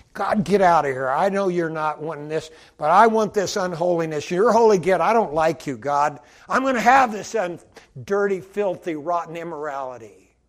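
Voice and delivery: a sinner angrily shoving God aside; defiant outburst. Retold or imitated. Mock sinner yelling at God to get out, loud and defiant.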